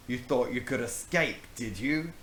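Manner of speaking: lightly voiced evil pirate taunt. Brownbeard cornering the children, mild evil taunt. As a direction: gloat a little over caught kids. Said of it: "he said evilly".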